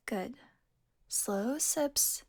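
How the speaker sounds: soft, breathy instruction; gentle coaxing. Acted. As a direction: hush it to steady a weak patient. Coaxing weak hunter to drink.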